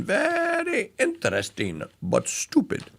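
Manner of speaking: put-on Very interesting drawn out high in a German accent; German accent, stretch the very; mock German accent. Host previewing the Laugh-In catchphrase in a mock German accent. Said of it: "in a German accent".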